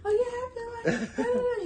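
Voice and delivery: telling daddy the news, choked up; teary. Retold or imitated. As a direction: talk through happy tears. Crying to her daddy.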